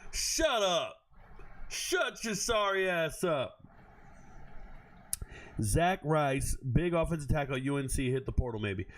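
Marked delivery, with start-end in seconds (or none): 0.1-3.6 scornful dismissal. Real, not acted. Mocking the fake worried friends.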